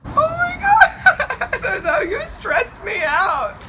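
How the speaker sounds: high squeal breaking into laughter; real giddy, laughing protest; laughing relief. Real, not acted. Winner reacts, relieved from stress.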